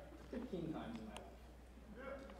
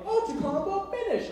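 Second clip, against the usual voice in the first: retold yell; 12 semitones higher than usual. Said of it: "someone yelled".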